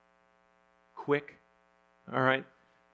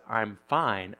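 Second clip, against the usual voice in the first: low, pointed fine that means she's not fine; wife's I'm fine; 5 semitones lower than usual. Retold or imitated. Pastor imitates his wife saying a loaded fine. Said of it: "if my wife says".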